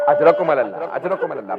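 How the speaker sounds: low, broken grieving call; quiet sobbing condolence; choked refrain. Real, not acted. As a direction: spent and tearful. Refrain after the climax.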